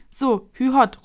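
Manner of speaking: loud cheerful giddy-up call, pitch up. A narrator's reading. Little dragon spurring his big ride, calling out loudly. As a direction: urge the dragon on like a coachman. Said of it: "ruft Kokosnuss".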